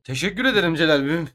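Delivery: flat robotic monotone. Acted. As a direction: say it like a robot, no feeling. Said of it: "Niye robot gibi söyledin oğlum".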